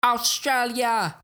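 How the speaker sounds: high, drawn-out Aussie shout-out; hammed-up Australian accent, stretched slowly; mock Aussie echo. Echoing mock Aussie country announcement.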